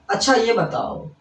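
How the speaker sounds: slow अच्छा ये बताओ, stretched and falling at the end; questioning lead-in. Shown as a demonstration. Teacher showing someone asking a question, inquiring. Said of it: "जैसे कोई प्रश्न करता है".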